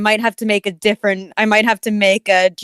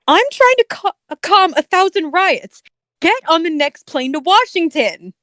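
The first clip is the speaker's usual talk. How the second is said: high-pitched imitated voice, put-on demand; Chills; 8 semitones higher than usual. President ordering a flight to Washington, high put-on voice. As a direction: pitch it well up for an obnoxious character. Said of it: "you're doing a Chills voice".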